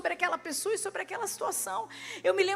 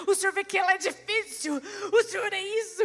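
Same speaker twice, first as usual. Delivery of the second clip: rising mock complaint; 4 semitones higher, 5 dB louder than usual. Mock prayer builds to complaint.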